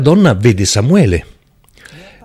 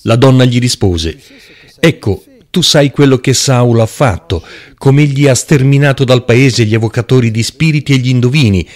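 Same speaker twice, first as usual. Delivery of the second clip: scripture reading. Acted. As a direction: read the passage out to the congregation. Preacher reads scripture aloud.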